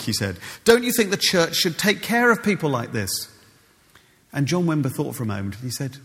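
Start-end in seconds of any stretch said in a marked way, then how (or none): 0.7-3.3 indignant question. Retold or imitated.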